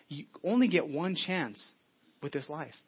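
slow, every word weighed, "only" leaning in; slow emphatic repeat. Real, not acted. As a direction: drive the point home slowly.

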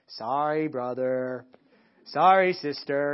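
low, dragged-out mock apology with no heart in it; half-hearted sorry. Kid forced to apologize to a sibling, mock insincere sorry. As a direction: imitate a kid mumbling sorry just to get it over with. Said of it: "they just go through the motions".

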